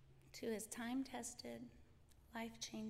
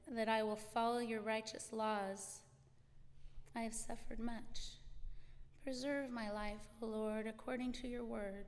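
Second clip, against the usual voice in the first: measured, prayerful reading of the psalm verses; scripture reading. Acted. Reading a psalm to the congregation, measured and prayerful.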